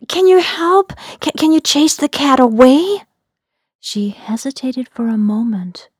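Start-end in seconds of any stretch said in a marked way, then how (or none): 0.1-3.0 high, loud and fast pleading; urgent plea. Acted. Narrator begging Feathers to chase the cat, high urgent plea. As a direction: beg for help in a rush.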